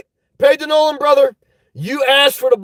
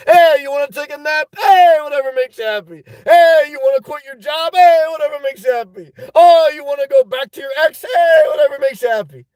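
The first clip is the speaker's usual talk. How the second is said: lightly raised, hammed-up shrug of a refrain; mock indulgent parent; 4 semitones higher than usual. Playing the good parent who says yes to everything, mock indulgent. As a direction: call out each permission like a carefree parent.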